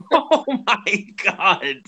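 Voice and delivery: high, slow, stunned gasps of awe; real wonder, pitch way up; can't believe what he's seeing; amazed disbelief. Real, not acted. Reacting to the rare box set.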